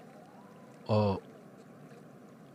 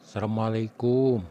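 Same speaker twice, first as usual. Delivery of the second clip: calling out; 4 semitones higher, 6 dB louder than usual. Acted. Calling out at the door.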